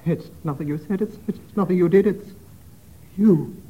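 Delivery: disguised voice. Acted. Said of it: "read this in a disguised voice".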